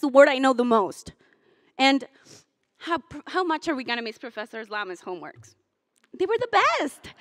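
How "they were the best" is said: high, mock-sweet sarcastic praise. Graduation speaker teasing a professor about his homework, sarcastic. No, we're not gonna miss those.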